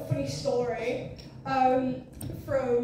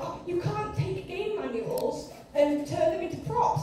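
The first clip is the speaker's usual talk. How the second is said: higher, drawn-out mimicked objection; scolding critics; 5 semitones higher than usual. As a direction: imitate disapproving critics, slowly. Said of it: "people were like".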